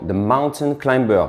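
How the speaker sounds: lightly hammed English pronunciation; English accent. Shown as a demonstration. Coach jokingly showing off being bilingual, English accent. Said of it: "Vous avez vu un peu l'accent?".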